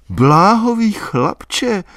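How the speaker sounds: excited high repeat, drawn out. A narrator's reading. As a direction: repeat it all stirred up. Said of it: "opakovala vzrušeně".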